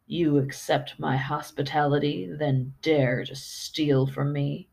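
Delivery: lightly voiced growling beast; a hint of a gravelly monster; deep gravelly beast. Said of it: "came the creature's deep, gravelly voice".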